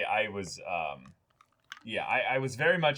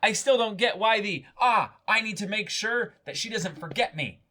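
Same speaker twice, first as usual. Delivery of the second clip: mock baffled viewer; 12 semitones higher, 5 dB louder than usual. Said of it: "I'm like".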